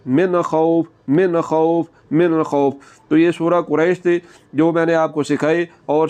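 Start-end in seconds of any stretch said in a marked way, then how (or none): 0.1-2.7 من خوف with the noon said clearly, no nasal hold; clear noon, no ghunna. Shown as a demonstration. Teacher shows izhar in من خوف, plain clear noon. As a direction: say من خوف without humming the noon. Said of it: "یہاں پر غنہ نہیں کرنا".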